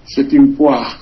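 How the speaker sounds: light French accent on C'est une poire; French phrase. Shown as a demonstration. Host explains French idiom, light French accent. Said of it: "en francés".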